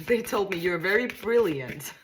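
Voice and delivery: delighted laughing praise. Real, not acted. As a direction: giggle as you pass on the good news. Delighted reading of the cards.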